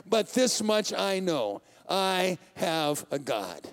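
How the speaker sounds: slow, settled confession of faith; slow firm declaration. Acted. Psalmist to God, slow and certain. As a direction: let it land slowly, sure of God.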